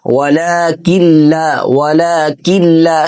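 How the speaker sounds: वलाकिन ला said as walakil-la with a doubled l; tajweed merging demo; merged walakil-la. Shown as a demonstration. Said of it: "किन ला नहीं कहना".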